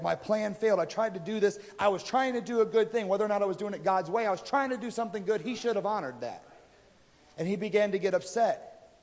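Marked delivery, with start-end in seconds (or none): 0.0-6.4 mildly indignant, self-justifying complaint; retold indignation. Preacher voices David mad that his plan failed, mock indignation. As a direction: gripe as if treated unfairly, without shouting. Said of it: "He's just mad".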